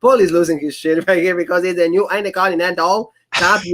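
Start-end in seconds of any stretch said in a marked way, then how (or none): 2.1-3.7 exaggerated Nigerian accent. Host mocks the new champion's title, exaggerated Nigerian accent. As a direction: imitate an overblown Nigerian-accented title boast. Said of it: "he has to exaggerate".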